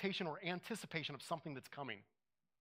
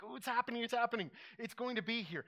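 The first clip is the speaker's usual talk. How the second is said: higher, eager imitation of a child before Christmas; giddy kid excitement; 5 semitones higher than usual. Preacher recalling himself as a kid at Christmas, mild giddy excitement. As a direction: bounce with a kid's thrill that it's almost here. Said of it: "like, shaky giddy".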